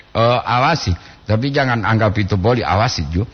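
usual speaking voice

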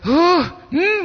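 high, let-down "huh, hmm"; acted sigh of disappointment; disappointed huff. Shown as a demonstration. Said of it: "bojak kecewa itu".

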